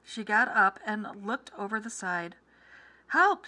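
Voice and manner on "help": high, loud cry for help. A narrator's reading. Mrs. Gregg spotting danger below the nest, crying out. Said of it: "she cried".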